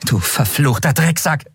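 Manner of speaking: high, fast outburst, cut off; furious cursing. Acted. Endriel cursing the traitorous skeleton, furious. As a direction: spit the insult.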